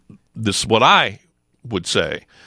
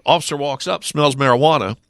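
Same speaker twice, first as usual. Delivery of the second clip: ordinary delivery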